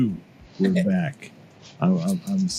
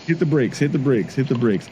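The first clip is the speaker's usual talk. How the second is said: urgent stop; 4 semitones higher than usual. Real, not acted. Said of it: "Hold on".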